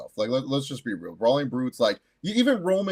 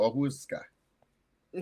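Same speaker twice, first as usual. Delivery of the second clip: clueless fan; 5 dB quieter, much slower than usual. Retold or imitated. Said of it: "they just go".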